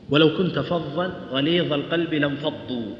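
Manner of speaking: slow measured recitation; reciting the verse as a teaching example; Quran recitation. Shown as a demonstration. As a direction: recite the verse carefully and slowly. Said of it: "عندنا ثلاث كلمات".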